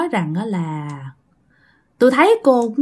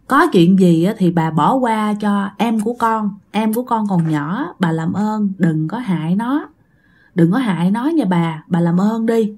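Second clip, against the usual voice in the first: pleading; 2 semitones lower than usual. Retold or imitated. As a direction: plead gently with the angry old spirit. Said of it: "mẹ cũng năn nỉ". (van nài nhẹ nhàng với bà già)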